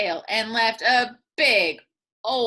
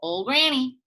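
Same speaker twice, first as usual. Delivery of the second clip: snake voice; 2 semitones higher than usual. Acted. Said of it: "said the snake".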